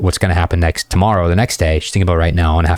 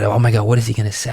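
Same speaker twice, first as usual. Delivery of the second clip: fast, lightly voiced gushing girl; imitating a woman caught up in the story; excited girl; faster than usual. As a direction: rush it like she's hooked.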